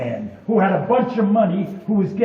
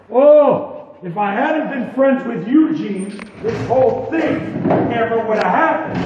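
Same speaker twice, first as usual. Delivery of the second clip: whining; 2 semitones higher, 4 dB louder than usual. Acted. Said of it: "even though Tom was whining".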